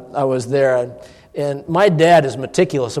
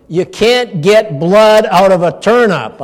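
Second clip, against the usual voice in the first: teasing; 5 semitones higher, 7 dB louder, slower than usual. Retold or imitated. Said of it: "I said".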